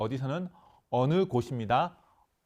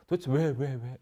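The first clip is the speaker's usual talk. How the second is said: exasperated why; 3 semitones higher, 3 dB louder than usual. Shown as a demonstration. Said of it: "이렇게 묻잖아요".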